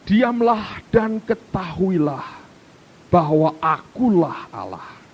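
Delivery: slow, measured reading; solemn unhurried recitation; slow scripture reading. Shown as a demonstration. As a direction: read each word deliberately. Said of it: "Saya baca buat saudara".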